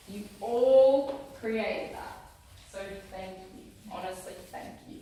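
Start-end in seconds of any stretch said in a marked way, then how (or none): 2.7-5.0 choked-up thanks. Real, not acted. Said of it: "I'm gonna cry".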